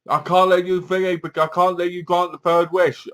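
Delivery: lightly hammed-up stern warning; mock hunter. Voices Hunter threatening Lisa.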